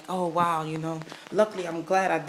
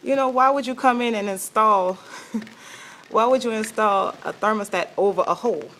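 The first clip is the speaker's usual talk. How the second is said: baffled questioning; 4 semitones higher than usual. Retold or imitated. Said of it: "I'm like".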